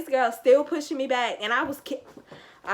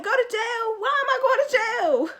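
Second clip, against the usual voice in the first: retold disbelief; 13 semitones higher, 5 dB louder than usual. Being dragged to a car.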